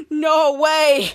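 loud, astonished exclamation; amazed outburst. Retold or imitated. Henry hearing the villain is nearly caught, amazed. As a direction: burst out in mock amazement.

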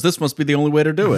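quoting her. Retold or imitated. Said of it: "and she goes".

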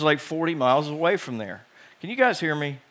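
hollow tube-like sound; through a tube. Real, not acted. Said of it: "I sound like I'm in a tube".

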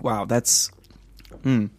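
hushed awed whisper. Real, not acted. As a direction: breathe it out in awe. Reacting to strong beer.

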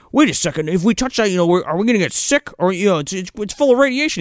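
high, hurried anxious imitation; hammed-up nervous questioning; mock worried. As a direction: fret over the danger in a put-on voice. Acting out worried man questioning safety.

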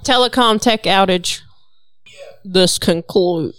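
failed attempt at a Boston accent. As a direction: try a Boston accent, badly. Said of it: "I can't even do a Boston accent".

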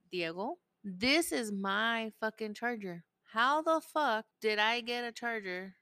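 mock furious mom; retold angry yell at son. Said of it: "And I'm like".

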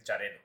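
"Charelo" opened with a hard ch as in chair; very Catalan "Charelo", ch instead of sh; ch pronunciation. Shown as a demonstration. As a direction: start "Charelo" on a crisp ch sound. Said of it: "así con ch".

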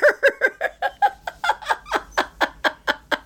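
high, breathy burst of laughter; cracking up at the story; big laugh. Real, not acted. Laughing at the text message.

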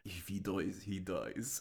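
deadpan line with a Russian accent. Shown as a demonstration. Showing co-host how to do it, restrained Russian accent. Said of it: "you just have to go like".

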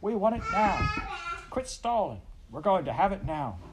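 high, loud mob demand; shouted. A narrator's reading. The crowd shouting at Pa to pay now, high loud shout. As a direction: hurl it like an impatient crowd. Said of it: "The voices shouted again".

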